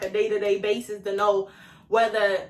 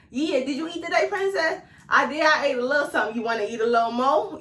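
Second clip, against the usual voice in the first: sweet caring voice; 4 semitones higher than usual. Retold or imitated. Being her own caring man.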